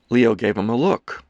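ordinary delivery, nothing marked

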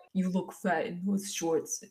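a faint, half-hearted Trump voice that drifts toward Boston; bad Donald Trump. Inner critic mocking her shorts, in a faint bad Trump voice. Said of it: "put them in the voice of Donald Trump".

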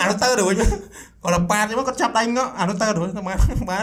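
telling it through laughter; laughing. Real, not acted. Retelling the arm-grab to a friend, laughing.

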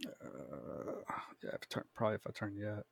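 thin, distant voice through a phone; phone speaker. Real, not acted. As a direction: heard over a phone line. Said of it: "Can you hear me through the phone".

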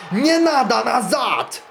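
high, slow, loud command; Stalin shouting to the crowd, loud and drawn out. Acted. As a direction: shout over the shooting. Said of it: "кричит".

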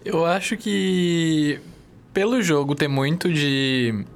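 choking mid-sentence, throat catching; words cut off by a choke; choking on a drink. Real, not acted. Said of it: "quase engasguei aqui".

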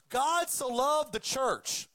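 slow, pointed wrong version of "God so loved the church"; deliberate misquote. Shown as a demonstration. Preacher demonstrating the misquoted verse to the congregation, slow and pointed. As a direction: lay out "church" as the wrong word, deliberately and slowly. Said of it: "one of the most misquoted verses".

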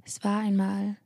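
mostly whispered bedtime tale; sleep story narrator. Acted. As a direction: whisper it like lulling a child.

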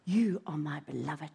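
tender divine reassurance; voice of God. Acted. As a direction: speak as a gentle Lord. God's voice spoken to her.

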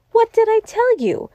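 very high-pitched, gleeful I-told-you-so; crowing triumph. A narrator's reading. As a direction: crow it in triumph. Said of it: "high crow of laughter".

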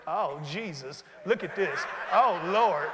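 a hammed-up lament over trouble; mock despair. Believer whining to God about a situation, mock despair. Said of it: "sometimes we get to the situation".

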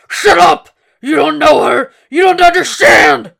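the Dragon screaming at Hannibal to shut up; furious shout. Acted. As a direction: scream him down, losing all control.

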